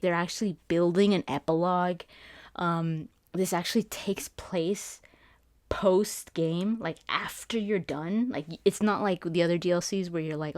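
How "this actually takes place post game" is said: whisper. Real, not acted. Whispered hype detail.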